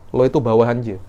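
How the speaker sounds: mildly bossy demonstration; understated pulling of rank; superior tone. Shown as a demonstration. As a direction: talk down to a subordinate. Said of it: "isti'la, intonasinya".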